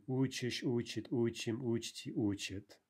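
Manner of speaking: учишь, учит, учим all stressed on initial "у"; stress shifted back. Shown as a demonstration. Teacher reciting the shifted forms, учишь onward stressed on first syllable. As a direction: hit У in every form, учишь to учит. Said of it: "shifting stress".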